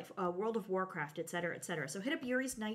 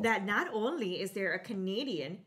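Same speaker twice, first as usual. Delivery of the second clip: mock Canadian accent; 5 dB louder than usual. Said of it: "That's a Minnesotan accent".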